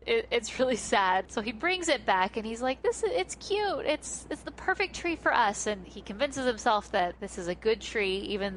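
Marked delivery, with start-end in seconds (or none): 2.8-5.7 imitated fond defending. Host voicing Charlie Brown defending his little shrub, high fond coaxing. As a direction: sell it sweetly, as a retold quote.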